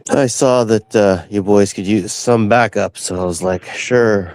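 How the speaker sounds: groggy pre-coffee voice; dry, just-woke-up throat; dehydrated voice. Real, not acted. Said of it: "You can hear it in my voice. This is the pre-coffee voice".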